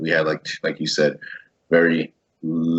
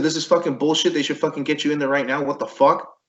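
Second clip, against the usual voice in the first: retold indignation; 8 semitones higher than usual. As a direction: replay an indignant objection without shouting. Retelling his protest over denied surgery.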